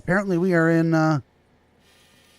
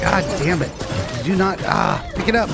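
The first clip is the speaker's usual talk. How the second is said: exasperated shouting; 5 semitones higher than usual. Real, not acted. Baby cargo dropped, frustrated.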